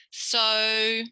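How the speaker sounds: "So" held long on a level note; teacher's sustained "So"; model syllable. Shown as a demonstration. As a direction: draw out "So" clearly for copying. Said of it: "I'm gonna say it and you imitate me".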